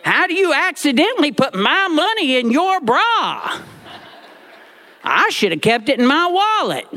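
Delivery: mock crying boy. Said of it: "I'm crying at this point too".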